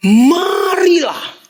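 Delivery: high, slow, loud call of Marilah; drawn-out shout. Shown as a demonstration. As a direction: stretch Marilah out like a summons. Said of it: "Kalau ada kata marilah itu artinya apa?". (seruan panjang keras Marilah)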